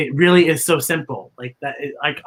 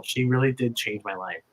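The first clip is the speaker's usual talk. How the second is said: real emotion, voice dropping softer; getting emotional; 4 semitones lower, 4 dB quieter than usual. Real, not acted. Thanking her old teacher, quietly choked up. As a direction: hold back tears as you thank her. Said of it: "I know I'm gonna get emotional".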